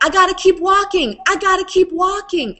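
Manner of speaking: nervous self-talk. Retold or imitated. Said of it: "I was like".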